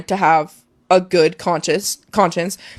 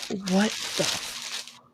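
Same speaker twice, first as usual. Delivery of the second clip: stunned; 12 dB quieter, much slower than usual. Retold or imitated. Stunned inner reaction on field.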